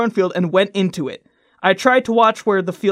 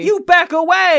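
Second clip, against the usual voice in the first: exasperated retort; 10 semitones higher, 5 dB louder than usual. Real, not acted. Rebuking cohost's advice.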